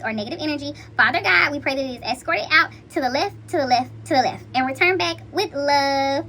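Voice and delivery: steady earnest prayer voice. Acted. Reader praying protection over her audience, earnest prayer. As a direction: pray over the viewers with conviction.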